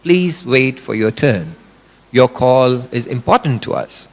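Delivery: deliberate mock phone-system voice; automated phone voice. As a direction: read it like a dry recorded hold line. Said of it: "you will hear the automated voice".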